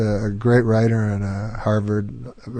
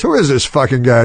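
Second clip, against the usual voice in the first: retold indignation; 2 semitones higher, 3 dB louder than usual. Retelling comic's angry phone outburst.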